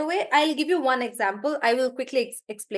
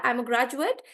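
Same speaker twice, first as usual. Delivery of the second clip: "graduate" stressed on GRAD; strong first syllable, weak "ut" in "graduate"; noun stress. Shown as a demonstration. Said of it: "I'm stressing on the first part".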